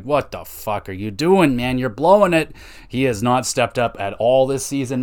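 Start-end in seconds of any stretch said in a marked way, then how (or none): 0.0-2.5 exasperated outburst. Real, not acted. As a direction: blurt it like you are yelling at the TV. Ranting at the player Sandin.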